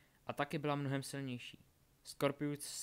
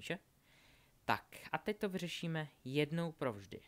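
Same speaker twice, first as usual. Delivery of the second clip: lightly voiced villainess, in control; higher openings that settle as she lectures; gloating villainess; 3 semitones higher, 3 dB louder than usual. Delphi taunting her bound captives, lightly voiced gloating.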